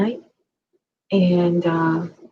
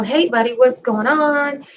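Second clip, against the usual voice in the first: calm and cool; 5 semitones higher than usual. Retold or imitated. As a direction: imitate the cop staying relaxed. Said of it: "He was so calm and cool".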